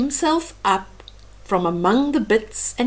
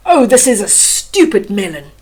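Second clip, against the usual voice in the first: scornful king; 6 dB louder than usual. Acted. King gives up, disgusted.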